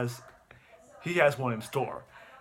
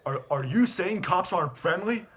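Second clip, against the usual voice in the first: higher, mildly indignant challenge; kinda mad; 5 semitones higher than usual. Retold or imitated. Cop challenging the dad's remark, mildly mad. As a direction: imitate someone taking mild offence. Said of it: "gets kinda mad".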